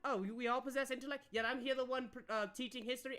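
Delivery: a touch of wounded superiority; indignant scoffing. Acted. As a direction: throw their claim back at them. Counselor indignantly echoes player's retort.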